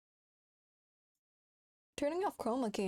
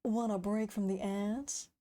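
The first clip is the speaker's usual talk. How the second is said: ad voice. Retold or imitated. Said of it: "You sound like".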